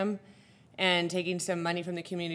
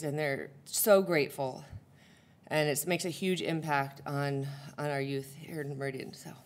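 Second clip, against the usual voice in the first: out of breath; 3 semitones lower, 4 dB quieter than usual. Real, not acted. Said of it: "Sorry, I'm out of breath".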